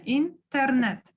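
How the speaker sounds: Интернет drawn out slowly, the way locals say it; slow Интернет, ending on a full НЕТ; local stress. Shown as a demonstration. Teacher showing the local habit, Интернет said slowly with local stress. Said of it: "деп айтабыз".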